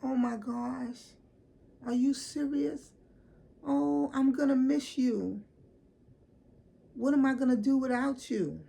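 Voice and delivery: so-called friend hugging her, hammed-up loud mock grief; mock dramatic friend. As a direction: overdo the fake grief like a bad friend. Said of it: "And the bitch said".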